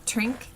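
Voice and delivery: "Trink", drink with a dental D; Irish-style drink, close to "Trink". Shown as a demonstration. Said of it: "and the dental D".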